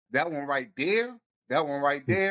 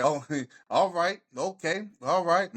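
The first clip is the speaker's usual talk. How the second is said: light impression, slightly raised pitch with a chuckle; Denzel; 4 semitones higher than usual. Fan reacting to a great match, lightly doing Denzel. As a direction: chuckle through a lightly impersonated approving reaction. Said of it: "I turned into Denzel watching that match".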